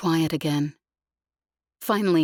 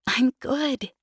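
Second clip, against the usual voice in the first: jaunty; 8 semitones higher than usual. A narrator's reading. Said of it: "she said jauntily".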